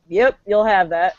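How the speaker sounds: slow, indifferent reply; West Virginia ex-boyfriend. Retold or imitated. Ex responding to bar remark, slow indifference. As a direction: shrug it off slowly. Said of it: "he'd be like".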